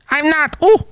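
very high, put-on falsetto lady; squeaky guest character voice, hammed-up; a shrill-ish madam greeting the host with high falsetto; high silly lady voice.

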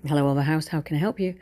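lightly put-on professional phone manner; a touch of receptionist politeness; polite phone greeting. Daughter answering the hotel phone, lightly professional and polite. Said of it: "switches straight into professional and polite".

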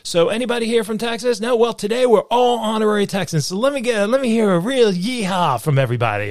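high, bright mic announcer voice; tour guide announcer. Retold or imitated. Tour guide hyping the tram crowd, announcer voice. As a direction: welcome the tram like a showman on the mic. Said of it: "And then I say".

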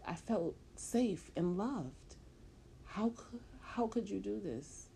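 cling to him as he leaves; desperate pleading. Acted.

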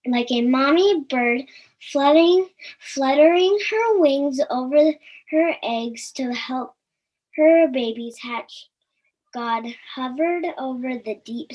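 gentle storybook reading voice; story narration. A narrator's reading. Reading the creation story to children, gentle storytelling. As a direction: read it like a bedtime Bible story.

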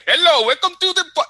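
high, loud chipper greeting; mock AI greeter. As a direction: greet like a cheerful bar robot. Imagined AI greeting.

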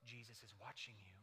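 low, hushed, eerie voice from the dark; hushed hidden voice. A narrator's reading. Unseen parrot warns a burglar in the dark, hushed and eerie. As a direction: spook the burglar without showing yourself. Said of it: "he hears again this voice".

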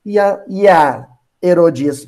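ordinary talk, nothing marked

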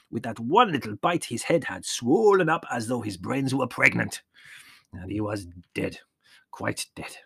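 put-on old shepherd telling a grim tale; a storyteller's lament; old Yanni, mournful. A narrator's reading. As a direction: relish the dreadful tale, voiced as an old peasant.

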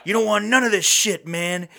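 high, fast, laughing drug-dealer voice; Tim Meadows impression. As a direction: hype it up like a sleazy dealer. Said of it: "Tim Meadows is the best part".

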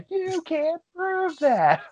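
high, slow, laughing game-show announcer voice; booming host voice, stretched out and giggling. Retold or imitated. Mocking a friend's quip like a game show host. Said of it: "I want that to be a game show".

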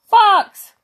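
high, loud alarm caw; cawing crows. Acted. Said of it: "they cawed".

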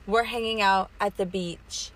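slow, dragged-out stoned talk; stoner. Real, not acted. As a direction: speak slowly as if high. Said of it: "I'm high as fuck right now".

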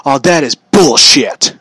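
mock outraged dad, dragging it out; imitating angry dad. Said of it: "I hear a voice ... going like".

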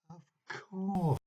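"of course" dawning on him; exclaimed. A narrator's reading. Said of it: "he exclaimed".

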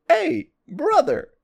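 hammed-up friendly cop; police officer voice. Imitating the police officer calling him on the phone. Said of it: "And they said".

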